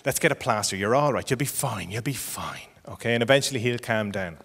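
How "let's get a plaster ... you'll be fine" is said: softer, lowered soothing voice; mildly weary reassurance, trailing softer; parent placating child. Acted. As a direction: settle the child down quietly. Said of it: "At which point you go".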